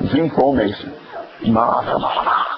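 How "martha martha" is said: Southern-drawn MARTHA, MARTHA; Southern accent. Acted. Preacher imagining Jesus from southern Jerusalem, Southern accent. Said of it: "If he's on the southern part of Jerusalem".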